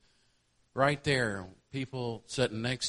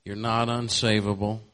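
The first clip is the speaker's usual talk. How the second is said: louder, rising on "not"; calling out to the congregation, "not" hit loud and rising; loud preaching refrain; 3 semitones higher, 10 dB louder than usual. Real, not acted. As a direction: proclaim "You're not unsavable" with "not" lifted high and loud. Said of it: "preacher repeats the refrain".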